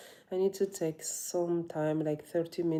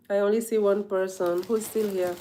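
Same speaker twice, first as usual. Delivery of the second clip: raised voice, checking who's there; calling out; 4 semitones higher, 7 dB louder than usual. Real, not acted. Vlogger seeing only one person left, calling out. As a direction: call out loudly to whoever remains.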